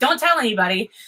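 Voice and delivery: light, playful, teasing joking tone. Recounting an exchange with her, speaker retells own joking remark. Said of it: "Or I was like kind of jokingly".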